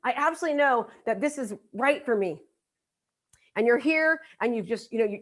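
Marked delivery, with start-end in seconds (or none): 0.0-2.4 eager, pitched up in the middle; a touch of giddy self-belief; excited. Acted. Attendee gushing to herself at the event, mildly excited. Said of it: "You're excited".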